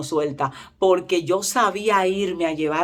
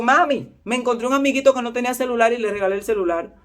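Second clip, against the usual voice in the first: higher-pitched call to mom, then a quick report; lightly voiced son; 4 semitones higher than usual. Son tells mother he gave the phone away, lightly imitated eager report. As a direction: play a kid breezily telling mom.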